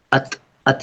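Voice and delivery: softly repeated अत, the feminine ending; the at sound. Shown as a demonstration. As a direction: isolate अत twice so students hear the ending. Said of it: "sound".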